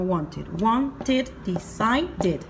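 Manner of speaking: wanted and decided with an "id" syllable; ID ending. Shown as a demonstration. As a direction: model "wan-tid, di-sai-did". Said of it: "la I D en pronunciación".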